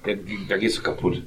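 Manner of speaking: tipsy, words slurred together. Real, not acted. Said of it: "ich, ich lallig". (leicht lallend, angetrunken)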